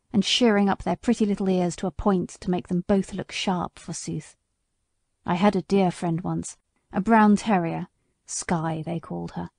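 a hint of a wounded old horse remembering; bitter old horse. Sir Oliver tells of Skye.

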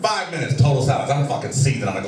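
usual speaking voice

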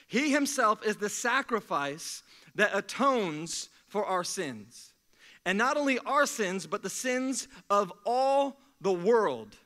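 slow, weighty reading of the verse; scripture reading. Acted. Preacher reading the verse to the church, slow and weighty. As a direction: read the verse slowly so every word lands.

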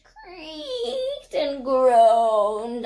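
words stretched slowly like straining wood; creaking and groaning. A narrator's reading. Narrator imitating bridge under heavy goat, creaking. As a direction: draw out each word as a creak and groan.

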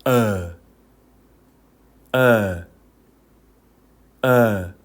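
어 between 오 and 어, pitched low and falling; Vietnamese ơ sound. Shown as a demonstration. Teacher demonstrating the vowel, a blended 어. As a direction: blend 오 and 어 into one short 어. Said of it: "제가 한번 들려드릴게요".

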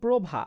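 প্রভা said as "probha", with an o after the র ফলা; pronunciation demo. Shown as a demonstration. Teacher shows students প্রভা spoken with the o sound. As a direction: voice প্রভা with a clear o after প্র. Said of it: "পয়র ফলা ওকার হয়ে যাচ্ছে".

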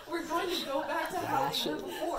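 giggling through the line; laughing while reading. Real, not acted. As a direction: read it while cracking up.

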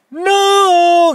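sudden high loud No!; a dramatic warning cry of No!; emphatic no. Acted. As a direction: cut them off with a sharp high shout. Warning against stuffing wet bag.

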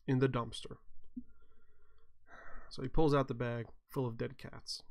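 normal talking voice

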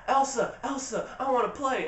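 mock child pestering a sibling to play; little girl calling. Little Anna at her sister's bed, pestering her in a high mock-child voice.

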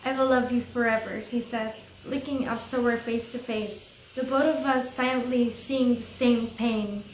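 earnest, understated read-aloud; story narration. A narrator's reading.

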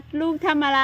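a mock mama elephant scolding her calf; mother elephant voice. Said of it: "แม่ฟ้าบอกว่า".

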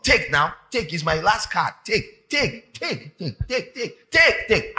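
hammed-up giver pushing an offering; rising, mocking take take; a touch of laughter on the last takes; mock pleading. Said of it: "trying to give God".

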